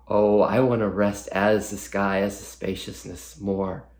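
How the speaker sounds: a touch of a striving seeker's voice, leaning in; eager spiritual achiever. Acted. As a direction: voice the part of you that longs to rest as the sky. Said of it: "some people call it a spiritual achiever".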